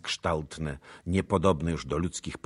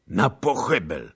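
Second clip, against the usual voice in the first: raised, louder condemning call; moderate cry; 4 semitones higher, 8 dB louder than usual. A narrator's reading. Ataman calls for the traitors' doom, crying out. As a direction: cry it out, short of a full scream. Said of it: "krzyknął".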